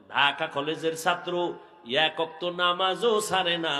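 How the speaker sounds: low, chant-like sermon delivery; intoned preaching reproach. Real, not acted. Preacher reproaches youths who skip prayer, intoned preaching. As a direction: press the reproach in rhythmic intoned phrases.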